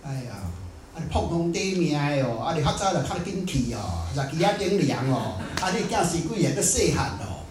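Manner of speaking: a lightly imitated widow's lament in Taiwanese; mock wailing. The widow laments over her dead husband, in mild mock wailing. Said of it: "太太就哭啊".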